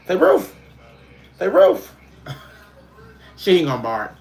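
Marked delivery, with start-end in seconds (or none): 0.2-0.5 high, loud barky "Ruth"; mock bark. Owner modelling a bark for her dog, high and loud. 1.5-1.9 even higher, louder rising "Ruth"; mock bark. Owner urging her dog to bark, high rising yap.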